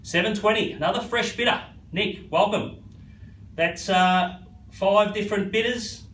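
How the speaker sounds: rhythmic auction bid calling; auctioneer calling. Real, not acted. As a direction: keep the bids rolling.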